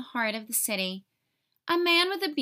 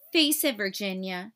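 sneering; 3 semitones lower than usual. Acted. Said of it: "she sneered".

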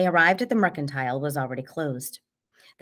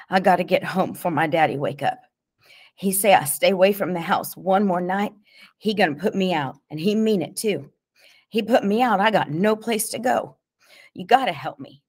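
louder, higher, urgent begging; desperate pleading; 4 semitones higher, 5 dB louder than usual. A narrator's reading. T J fears being put out by his daddy, desperate pleading. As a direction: plead as panic rises. Frightened boy begs to get home.

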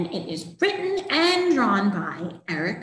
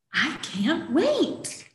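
eager kitten; 5 semitones higher, much slower than usual. Acted.

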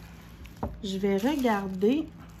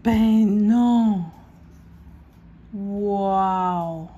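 excited cry; 6 dB louder, much slower than usual. Real, not acted. Delighted reaction to new pencil.

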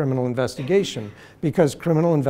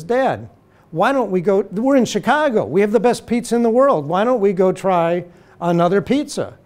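exasperated son; 6 semitones higher, 4 dB louder than usual. Retold or imitated. Son pleading with Irish father.

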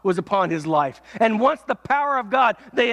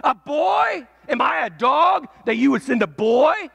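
mocking taunt; 2 semitones higher than usual. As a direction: scoff at the boy like a giant. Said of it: "mocked at him and said".

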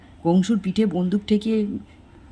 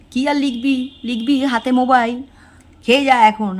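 loud, higher-pitched nagging; scolding mother; 5 semitones higher, 6 dB louder than usual. A narrator's reading. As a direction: lay into the child like an exasperated mother. Mother scolding child in story.

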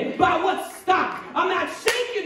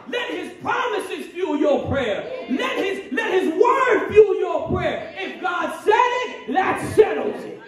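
getting excited; 2 semitones higher than usual. Real, not acted. Pastor urging the congregation to keep knocking, excited. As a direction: let the joy of the promise lift every line. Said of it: "I'm getting excited".

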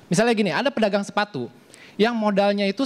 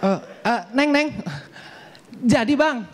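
higher, hurried call after her; calling back; 6 semitones higher than usual. Acted. Seller calls the woman back, higher and urgent. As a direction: call her back before she leaves.

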